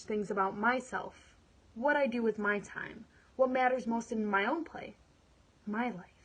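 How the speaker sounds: earnest monologue, anger building to resolve; dramatic monologue. Acted. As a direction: perform it like a woman taking control of her life. Performs her dramatic monologue.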